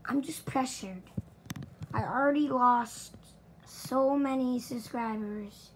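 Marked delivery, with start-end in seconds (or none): 1.9-5.7 loud hammed-up wail about losing subscribers; upset outburst. Youtuber to viewers, loud mock distress. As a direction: throw the complaint out loud and exasperated.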